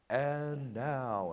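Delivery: stretched announcer's cue to the crowd; announcer call. Shown as a demonstration. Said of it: "I'll speak and I'll say".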